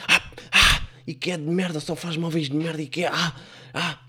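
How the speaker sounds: high yelps, then angry swearing; hammed-up cry of pain and rage; pained cursing. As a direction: yelp from a stubbed toe and curse the furniture. Acts stubbed toe, cursing Ikea.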